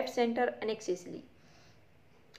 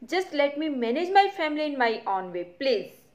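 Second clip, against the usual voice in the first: severe; slower than usual. Acted. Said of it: "severely, कठोरता से".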